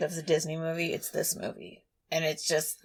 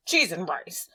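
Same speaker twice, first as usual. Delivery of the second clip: whisper. Acted. Whispered minced oath.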